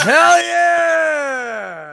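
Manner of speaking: laughing high cheer; excited shout. Real, not acted. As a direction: whoop it out, laughing. Cheering friend's song pick.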